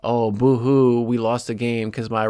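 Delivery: loud sarcastic boo-hoo, half-hearted fake crying; mock him as a whining baby; mock crybaby whine. Podcaster mocking Mahomes as a crybaby, sarcastic whine. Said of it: "stop crying like a little baby".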